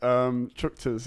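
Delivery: "chuchters" sounded out slowly, syllable by syllable; trying out the unfamiliar word "chuchters" slowly; slow careful try. Shown as a demonstration. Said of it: "It almost sounds like".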